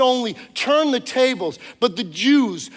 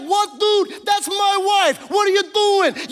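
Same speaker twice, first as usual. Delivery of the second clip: raging king; 8 semitones higher, slower than usual. Acted. Preacher voicing the enraged king at Haman, furious shout. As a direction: bellow it like a king in a rage. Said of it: "the king is in a rage".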